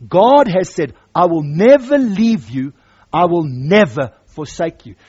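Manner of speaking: loud, with never lifted; loud preaching; loud proclamation. Acted. Preacher proclaims God's promise.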